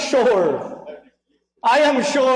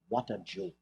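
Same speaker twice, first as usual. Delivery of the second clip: mock condescension; 16 dB quieter than usual. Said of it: "a lofty air of condescension".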